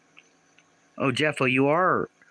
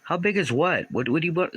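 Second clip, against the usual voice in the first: baffled; 7 semitones higher than usual. Real, not acted. Confused by a chat comment.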